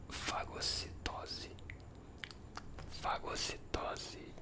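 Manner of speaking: drawn-out whispered word; slow whisper. Real, not acted. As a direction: whisper it very slowly. Savours the word slowly.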